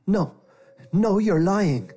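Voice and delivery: high, loud frightened shout. A narrator's reading. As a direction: yell it in defiance. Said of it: "Jeremiah shouted".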